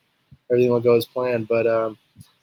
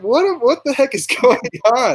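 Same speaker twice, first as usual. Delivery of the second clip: mock bewildered; 10 semitones higher than usual. Acted bewilderment at family.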